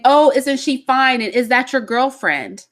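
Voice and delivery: put-on sing-song cooing at a kid; cooing adult. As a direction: coo it like a doting relative. Cooing quote to little boy.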